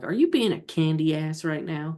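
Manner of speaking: ordinary talk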